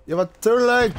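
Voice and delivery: talking while eating dinner; words around a bite of food; mouth full. Real, not acted. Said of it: "Trying to eat dinner and play".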